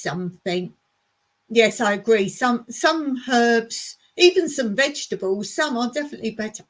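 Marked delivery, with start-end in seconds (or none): 5.5-6.6 talking through hiccups; interrupted by a hiccup. Real, not acted. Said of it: "I've got hiccups".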